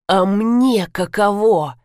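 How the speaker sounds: slow words pushed through gritted teeth. Acted. Viktor answers his crying wife through gritted teeth. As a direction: grind it out slowly. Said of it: "процедил Виктор".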